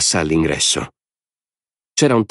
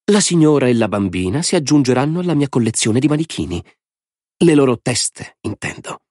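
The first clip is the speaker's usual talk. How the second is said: high, gleeful madman's voice; a mad lord savouring the game; Lord Alvin; 7 semitones higher than usual. A narrator's reading. (voce alta di signore folle e allegro)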